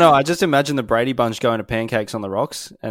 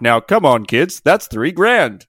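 stern dad; 7 dB louder, slower than usual. Pretend. Voicing the dad scolding the kids.

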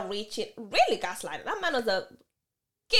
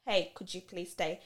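begging; 4 semitones lower, 8 dB quieter than usual. Retold or imitated. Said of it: "Now I'm begging".

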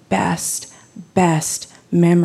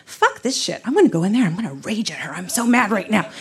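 mildly heated inner rant; working up a touch of fury; retold anger; faster than usual. Daughter climbing stairs to confront her mom, mildly angry. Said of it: "I'm getting mad".

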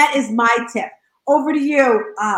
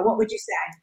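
ordinary talk

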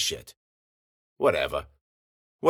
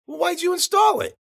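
exasperated shout. Acted. Frustrated customer yells at indifferent receptionist, shouting. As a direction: throw the question at her, fed up.

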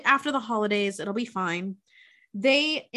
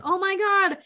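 mock overjoyed parents, pitched up without shouting; retold parental excitement; 7 semitones higher, faster than usual. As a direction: imitate thrilled soon-to-be grandparents. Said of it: "lose their mind. They're like".

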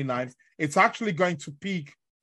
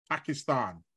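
hushed reveal; 4 semitones lower, 7 dB quieter than usual. Acted. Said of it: "you're gonna be shocked".

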